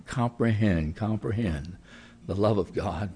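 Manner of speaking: earnest closing prayer to God. Acted. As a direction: pray over the congregation.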